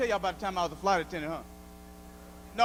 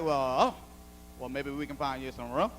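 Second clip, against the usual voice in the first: prissy white flight attendant; 8 semitones lower than usual. Retold or imitated. Mocking a snooty attendant asking to hang his coat, hushed. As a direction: put on a condescending prissy attendant. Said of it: "She's like".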